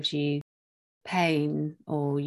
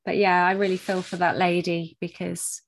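fighting back tears, softening; after crying. Real, not acted. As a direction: voice thick with tears. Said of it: "I'm getting teary".

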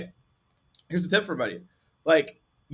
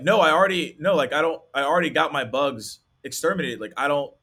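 louder, exasperated prospect insisting; a mildly annoyed prospect waving her off; irritated prospect; 4 dB louder than usual. Retold or imitated. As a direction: brush off the caller, fed up.

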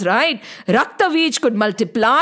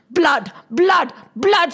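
hungry goddess calling for blood, higher; mock shout; 5 semitones higher than usual. Kal Ratri demanding blood in battle, higher, mock shouting. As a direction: chant the word in a playful battle cry. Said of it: "she shouted".

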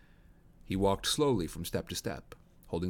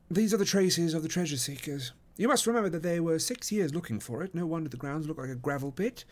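higher, assured detective voice; Holmes; 7 semitones higher than usual. A narrator's reading. Holmes explains the treasure seekers' traces, assured higher voice. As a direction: explain it with authority, pitched up.

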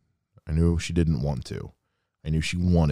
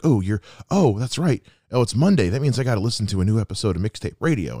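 excited mom voice; 4 semitones higher, faster than usual. Retold or imitated. Mom's eager Monday reaction retold.

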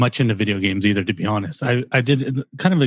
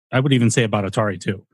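burping the words; faster than usual. Real, not acted. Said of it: "Excuse me. I burp in every episode".

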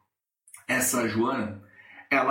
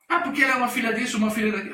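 imitated angry venting; 6 semitones higher, much faster than usual. Joana venting angrily about colleague.

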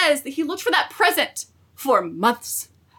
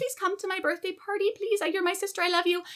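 softly pleading sister, a touch higher; pleading Feyre; 4 semitones higher, 5 dB quieter than usual. Retold or imitated. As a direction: beg her gently to come.

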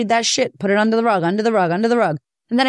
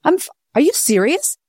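fake indignant denial; 6 semitones higher than usual. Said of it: "You did it so well".

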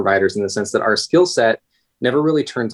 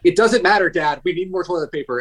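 imitating son; 7 semitones higher than usual. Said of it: "he just goes back".

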